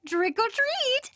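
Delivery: cheerful greeting at the door; playful demand. Acted. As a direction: stretch it out like an eager kid. Hero demands candy playfully.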